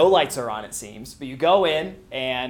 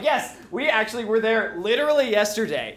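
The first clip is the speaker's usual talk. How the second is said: excited; 5 semitones higher than usual. Retold or imitated. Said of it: "And I'm getting excited".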